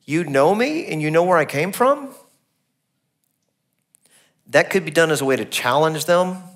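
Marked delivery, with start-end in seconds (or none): 0.1-2.2 "You know me and you know where I came from?" asked as a challenging question; questioning tune. Shown as a demonstration. Preacher reading the verse as a question to the crowd. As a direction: ask "from?" as a real question. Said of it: "he could have said it like this".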